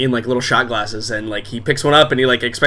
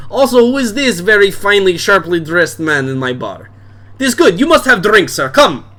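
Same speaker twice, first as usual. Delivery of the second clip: boisterous bar owner; 6 semitones higher than usual. Acted. Drunk dad welcoming daughter's friends to his bar, booming. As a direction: play the drunk dad greeting guests expansively. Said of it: "and he says".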